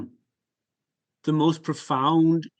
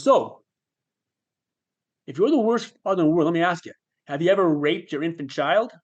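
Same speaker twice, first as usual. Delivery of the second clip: higher, quick cross-examination; sarcastic inner voice; 4 semitones higher, 3 dB louder than usual. Retold or imitated. Inner voice grilling the self-blaming father, sarcastic. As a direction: press the point sardonically. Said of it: "it goes".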